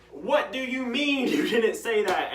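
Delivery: retelling his comeback to the denying teacher; incredulous retort. Retold or imitated. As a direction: throw it back at the teacher in disbelief. Confronting teacher who denies permission.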